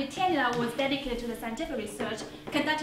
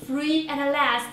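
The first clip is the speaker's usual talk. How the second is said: drawn out, louder and slow; slow triumphant; 4 dB louder, much slower than usual. Real, not acted. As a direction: savor it like a victory cry. Arriving in America, free.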